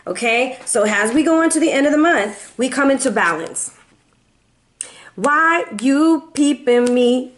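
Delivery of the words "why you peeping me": playful. Pretend. Playful rap-like aside.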